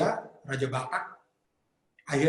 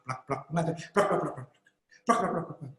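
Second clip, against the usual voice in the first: wing flaps; 3 dB quieter than usual. Shown as a demonstration. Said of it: "tepakan sayapnya ya".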